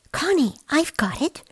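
high excited cry of an idea; a hint of a cub shouting. A narrator's reading. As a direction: call out the brainwave. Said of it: "Lars shouted".

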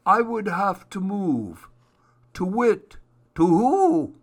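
high owl voice ending in a loud hoot; storybook owl calling out in high hoots. A narrator's reading. Owl objects, then hoots.

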